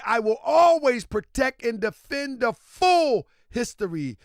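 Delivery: measured, emphatic statement reading; emphatic read-aloud. Real, not acted. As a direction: read it out like a proclamation, leaning on key words. Reads governor's statement aloud.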